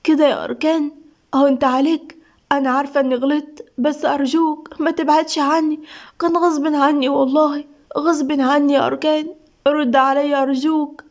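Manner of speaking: understated tearful pleading in a voice message; sad, tearful pain. Acted. Woman begging Arkan by voice message to answer, sad and pleading. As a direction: plead with a touch of hurt. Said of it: "فقالت بوجع ودموع وهي بتبعت له رسالة بصوتها الحزين".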